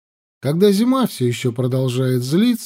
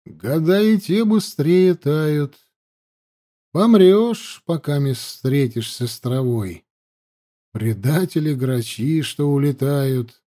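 expressive poem recital; slower than usual. A narrator's reading. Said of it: "негромко, но с выражением сказал Данилов".

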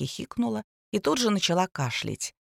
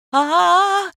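high, loud drawn-out scream; startled yell at full voice; 12 semitones higher, 7 dB louder than usual. A narrator's reading. Two women caught from behind, screaming. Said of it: "разом заорали".

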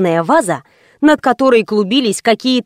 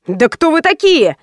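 higher, panicked squeal; the host squealing at the intruders; 5 semitones higher than usual. A narrator's reading. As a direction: squeal it out in fright. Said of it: "взвизгнул великий дракон".

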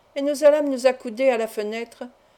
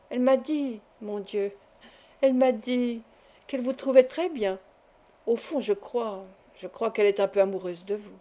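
feigned hesitation; 3 dB quieter than usual. Acted. Teasing hoax, feigned reluctance to reveal.

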